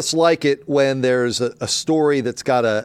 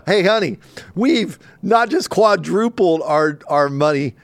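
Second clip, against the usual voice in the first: mock gloating; 3 semitones higher, 3 dB louder than usual. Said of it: "owner gloating to wife".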